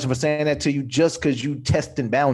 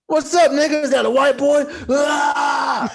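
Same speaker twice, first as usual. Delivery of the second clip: mock startled greeter; 8 semitones higher than usual. Greeting a white boy by mistake, startled high yelp. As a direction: act out a shocked double take. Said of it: "you know what I mean".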